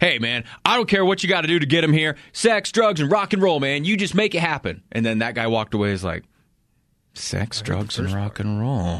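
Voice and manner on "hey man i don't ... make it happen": mock teasing, jokey, offhand, pitched up. Imagining what a coach told another man in passing, retelling a joking offhand remark. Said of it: "He probably said it like jokingly, like in passing".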